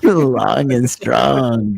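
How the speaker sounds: slow, drawn out through a laugh. Real, not acted. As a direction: savor it while laughing. Laughing echo of the chant.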